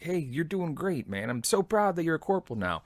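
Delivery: high-pitched, unforced congratulation; encouraging praise. Retold or imitated. Veteran praises former junior soldier now corporal, high encouraging tone. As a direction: act out being proud of someone.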